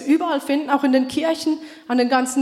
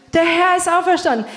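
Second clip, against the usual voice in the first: proclaimed Easter greeting; 5 semitones higher, 4 dB louder than usual. Acted.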